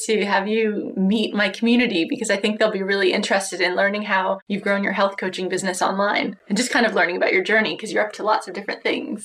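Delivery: tinny, lo-fi recorded call; poor audio quality. Real, not acted. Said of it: "less than stellar, um, audio quality".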